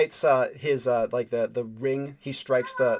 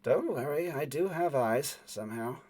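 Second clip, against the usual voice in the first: a woman's voice; 5 dB quieter than usual. Acted. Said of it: "a woman's voice".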